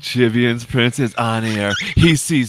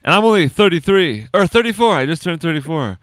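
exasperated; 6 semitones higher, 7 dB louder than usual. Real, not acted. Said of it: "I sound like an old man".

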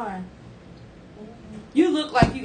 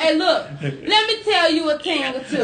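put-on Jamaican accent; 3 semitones higher than usual. Host teases guest in a light Jamaican accent. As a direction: slip into a playful Jamaican accent. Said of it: "she went to the Jamaican voice".

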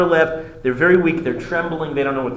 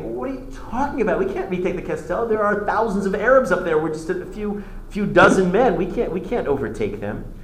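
much higher, disbelieving protest; can't believe the order; incredulous soldiers; 6 semitones higher than usual. Retold or imitated. Soldiers told to retake the Castel, in a high incredulous protest. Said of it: "And they think".

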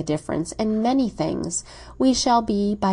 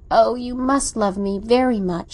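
cried out; 3 semitones higher, 4 dB louder than usual. Acted. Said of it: "she cried".

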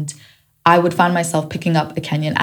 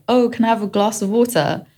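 put-on higher-pitched British English accent; 5 semitones higher, faster than usual. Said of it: "I've never lived in the U K".

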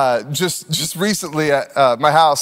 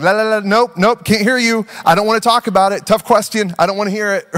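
put-on block them out like a stubborn child; mock refusal to listen; 3 semitones higher than usual. Partner tuning out a worried friend, mock stubborn refusal.

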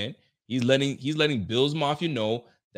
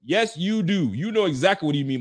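heated retort; 7 semitones higher, 4 dB louder than usual. Real, not acted. Arguing with the player.

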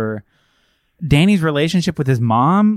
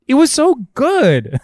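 gushing; 6 semitones higher than usual. Real, not acted. Gushing about the movie.

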